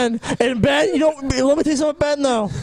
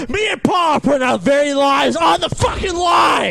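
shouting rant; 3 dB louder than usual. Real, not acted. Ranting at chat.

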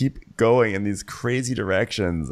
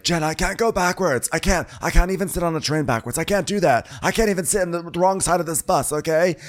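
higher-pitched fussy pleading; mock protest; 6 semitones higher than usual. Host mimics Lisa objecting to Jen, mildly exaggerated protest. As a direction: insist on it in a raised put-on voice. Acted friend protesting in the quarrel.

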